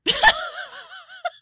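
high, loud burst of laughter; shrieking laugh. Real, not acted. Cohost cracks up at her own joke, shrieking laugh. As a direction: crack up with a squeal.

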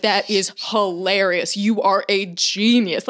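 slow, emphatic mock admiration; impressed amusement. Stepdad praising the puppy prank, slow emphatic delight. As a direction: imitate grand approval, word by word. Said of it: "he thinks it's the funniest thing".

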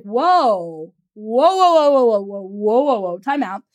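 long rolling run of mock protest, sliding down in pitch; alarmed halting client. Client halting coach's free-client idea, mock alarmed. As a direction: put on a big stop-right-there voice, falling away.

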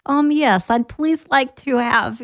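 mock Russian accent, a bit drawn out. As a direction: put on a slow, hammy Russian accent to order. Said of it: "she'd order in a Russian accent".

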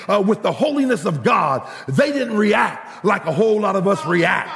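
ringing, rhythmic sermon climax; full-force preaching. Acted. Preacher proclaiming God's holiness to the congregation, full-force preaching. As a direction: drive each phrase home with stretched key words.

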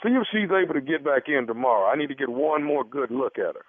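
lightly voiced casual physician; a hint of a doctor's measured patter; put-on doctor. Prankster posing as gynecologist to the husband, casual.

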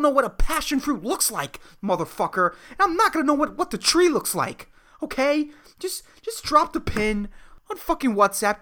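pleading how hard can it be; exasperated rant. Real, not acted. Ranting at old people's directions.

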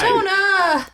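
shouting the name in outrage. Real, not acted. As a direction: yell it out, fed up. Player yells at deceiving Jonah.

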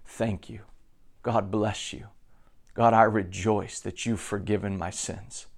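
hushed, tender thanks to God; quiet prayer. Pretend. A believer softly thanking God in prayer, hushed. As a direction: murmur it softly, as if kneeling alone.

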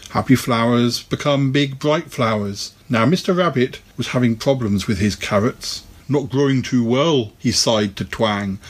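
gentle storybook reading, lightly voiced; story narration. A narrator's reading. Podcaster reading a children's picture book to listeners, storybook narration. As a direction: read it like a bedtime story to kids.

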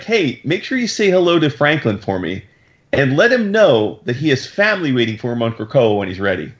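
mildly sugary send-off with a hidden jab; all smiles. Retold or imitated. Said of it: "like, all smiles".

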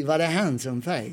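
slow Skåne accent, han som fes; southern Swedish accent. Shown as a demonstration. Showing friends how southerners say it, Skåne accent. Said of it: "if you're from the south of Sweden".

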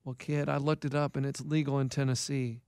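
low, soft, deadpan coach impression; Keith. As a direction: imitate an older friend's low, quiet phone voice. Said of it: "that's not how he talks".

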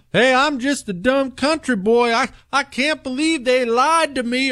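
high mocking hick voice; mock a clueless country bumpkin; dumb country boy. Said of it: "Are we really gonna do that routine".

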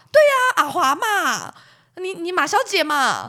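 high, quick, chirpy phone voice; chirpy clinic counselor. Retold or imitated. Clinic counselor on the phone to the wife, chirpy and high. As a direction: play the breezy counselor reading out results. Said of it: "counselor confirms the name".

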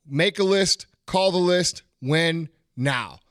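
rhythmic chant of the motto; dad's rhythm. Retold or imitated. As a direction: make a list, call the list, win now in a steady chanted beat. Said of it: "that's how he would say it".

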